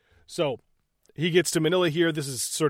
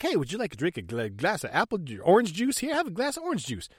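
mock hostess; 4 semitones higher, faster than usual. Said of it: "Mary Ann comes in and is like".

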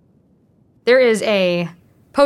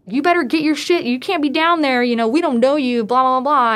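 higher, accusing local demanding answers; suspicious electrician; 5 semitones higher than usual. Retold or imitated. Electrician catches her under the boardwalk, accusing shout. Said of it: "he, like, just goes off".

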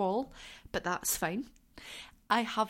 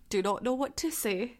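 overwhelmed. Real, not acted. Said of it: "I'm gonna get emotional".

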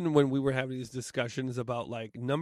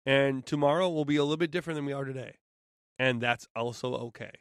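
soft, gentle reassurance; calm them like a kind teacher; soothing; 4 dB quieter than usual. Acted. Soothing closing message.

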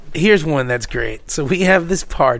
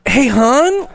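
laughing greeting; 8 semitones higher than usual. Retold or imitated. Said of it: "And then I'm like".

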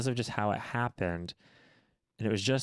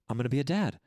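giddy repeating; 4 semitones higher, faster than usual. Retold or imitated. New dad pacing the room, high giddy repeating. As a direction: repeat it, rising high and excited. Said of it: "as I'm pacing the living room going".

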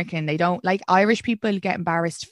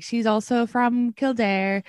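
slow mock announcement; 3 semitones higher, much slower than usual. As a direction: stretch it out slowly like a host. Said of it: "And then he was like".

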